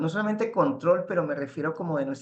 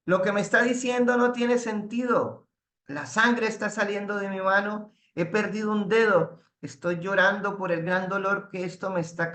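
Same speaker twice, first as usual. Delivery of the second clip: angry king shouting; 4 semitones higher than usual. Retold or imitated. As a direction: play the king raging at his minister, half-acted. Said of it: "Gritando y lleno de dolor". (rey furioso gritando, actuado a medias)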